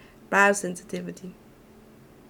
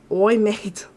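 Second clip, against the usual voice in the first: imitating an Aussie; 4 dB louder than usual. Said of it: "thanks to my cousin".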